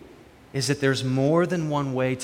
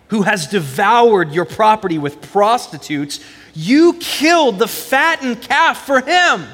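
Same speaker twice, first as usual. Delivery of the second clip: put-on aggrieved older son; 3 semitones higher than usual. Older son complains to his father, building to indignant protest. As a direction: let the resentment build line by line.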